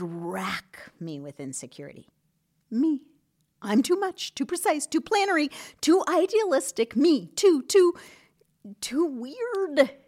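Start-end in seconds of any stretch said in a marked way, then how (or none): 2.7-10.0 high, louder, fretful listing of flaws; mock her old anxious inner voice; insecure self-mockery. Host mocking her old insecure self, high and fretful.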